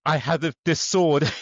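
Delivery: put-on loud, high, old-fashioned highwayman; sword-wielding robber. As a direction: demand it like a medieval bandit. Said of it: "And then you come to the U K".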